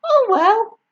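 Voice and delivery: high, resigned sigh; boy giving in; shrugging. Acted. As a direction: give in. George deciding.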